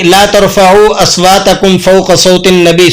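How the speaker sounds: measured recited verse; Quran recitation. Acted. Teacher reciting from Surah Hujurat. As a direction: recite the verse with a tilawat cadence.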